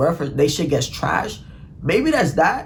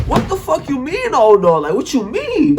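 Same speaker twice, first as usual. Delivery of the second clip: high, loud alarmed outburst; retold panic, high and loud on "oh no"; panicked disbelief; 8 semitones higher, 4 dB louder than usual. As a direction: blurt it, freaking out. Condom missing, panicked reply.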